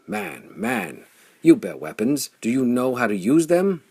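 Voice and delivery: high, loud, hammering demand; forceful challenge. Acted. Flame strikes Hearth and challenges him, forceful. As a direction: shake him with the question.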